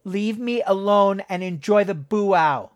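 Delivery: angry, through grinding teeth; through gritted teeth. A narrator's reading. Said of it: "her teeth grinding together".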